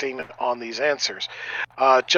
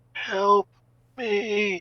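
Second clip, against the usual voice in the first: put-on faint, soft, high little boy's voice; 6 semitones higher, 6 dB quieter than usual. Describing a voice heard among the radio static, a quiet little boy's voice. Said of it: "a little boy's voice quietly say".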